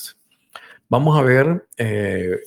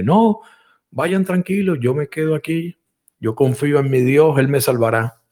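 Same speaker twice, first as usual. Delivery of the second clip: higher, calm refusal; stubborn believer; 5 semitones higher than usual. Acted. Stranded man refuses the soldiers, calmly stubborn. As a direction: wave them off, sure of God. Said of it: "Y decía el hombre".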